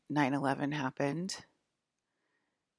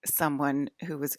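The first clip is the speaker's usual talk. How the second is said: real laugh breaking into the story; trying not to laugh while telling it; amused, apologetic giggle mid-sentence; suppressed laughter; 3 dB louder than usual. Real, not acted. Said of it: "I'm laughing, I'm sorry that I'm laughing".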